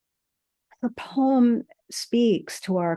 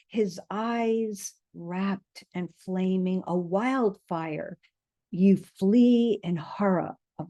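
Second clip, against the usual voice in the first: poem reading. Acted. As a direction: let each line land, unhurried. Reads a poem aloud.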